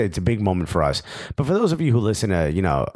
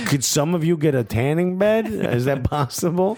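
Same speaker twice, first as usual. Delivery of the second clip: mock-polite Jersey accent, raised pitch; needling request in a light Jersey accent; Bob Bradley; 5 semitones higher than usual. Coach insulting his pale Welsh hosts, mock Jersey accent. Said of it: "knocked the Jersey accent out".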